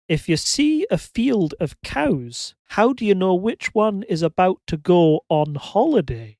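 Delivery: put-on slow joke setup in a Scottish accent; measured, deliberate Scottish joke-telling voice. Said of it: "do a Scottish accent for this one".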